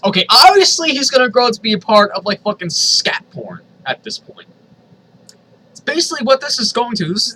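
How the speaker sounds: high, loud exasperated outburst; appalled rant. Real, not acted. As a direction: yell in disgusted disbelief. Reader appalled by the fanfic.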